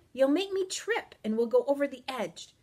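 high, urgent warning; alarmed cry. A narrator's reading. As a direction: warn in panic of a fall. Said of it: "I cried".

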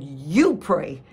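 curt refusal. Retold or imitated. She refuses, snapping at husband.

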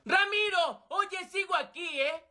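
high, sharp protest; indignant call. Acted. Ignored birthday boy calling his friend, indignant.

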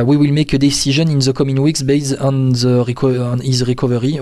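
French speaker reading out in an English accent; mild English accent, self-mocking. Shown as a demonstration. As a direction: read the English quote with a light French-tinged English accent. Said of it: "Vous voyez mon magnifique accent anglais".

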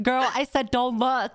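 mock scolding. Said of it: "I'm like".

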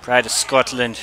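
a mock Scottish accent, lightly done; mild mock Scottish accent. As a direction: put on a hammy Scottish brogue. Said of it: "racist sounding Scotland accent".

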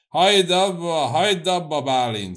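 loud, high, heated demand to stop; flushed with anger. A narrator's reading. Cecei orders Bálint to stop reading, flushed with anger. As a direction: cut the reader off in a rising temper. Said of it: "szólt Cecei a haragtól kitüzesedve".

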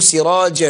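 سراجا pronounced "sirajan"; fatha tanween. Shown as a demonstration. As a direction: sound the final n of سراجا after an a. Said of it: "هنا تنوين".

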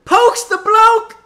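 shouted, drawn-out mock British call; high, hammed-up British announcer; British accent. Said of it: "They'll put in a British accent".

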